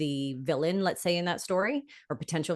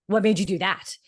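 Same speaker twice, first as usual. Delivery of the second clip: sharp, louder accusing question; 3 semitones higher, 5 dB louder than usual. Shown as a demonstration. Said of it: "if you're going".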